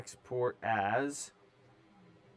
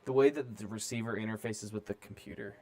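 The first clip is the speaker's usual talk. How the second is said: robot voice; 2 semitones higher than usual. Acted. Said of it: "Stop talking like a robot".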